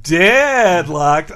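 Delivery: "deadlocked" with a drawn-out first syllable; theatrical Homer. Retold or imitated. Podcaster quoting Homer's explained word, theatrical. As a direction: stretch the start of "deadlocked" theatrically. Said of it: "the way Homer theatrically presents those words".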